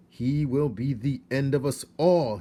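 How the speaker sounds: a father mouse shouting at his wife. A narrator's reading. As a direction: shout a warning of ruin. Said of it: "he shouted".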